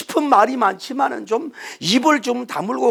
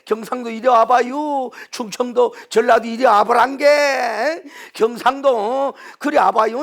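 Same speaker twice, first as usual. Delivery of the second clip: stretched calls to passers-by; rowdy crowd caller. Acted. Onlooker calling folk from every province to come, rowdy beckoning. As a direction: beckon people over like a busybody onlooker. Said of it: "군중이 요란하고 떠들고 난리법석을 하고".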